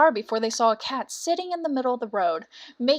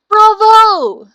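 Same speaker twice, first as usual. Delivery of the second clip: loud, high cheer of praise; donkey cheering the rooster loudly; delighted bravo; 10 semitones higher, 15 dB louder than usual. Acted. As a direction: burst out applauding. Ass applauds the cock.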